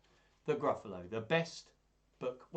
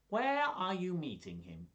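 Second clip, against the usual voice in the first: higher, worried fox question; nervous fox; 7 semitones higher, slower than usual. Acted. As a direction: ask it uneasily. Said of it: "do all the voices".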